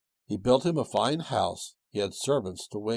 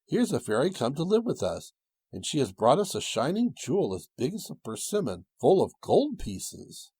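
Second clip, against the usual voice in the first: excited; 6 semitones higher, 3 dB louder than usual. Acted. Excited news to wife.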